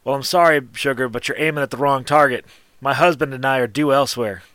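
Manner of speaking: lightly coy shopkeeper with a smirk; a little coy. Acted. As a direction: let down an admirer with a touch of coyness. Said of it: "kinda smirks a little coyly and goes".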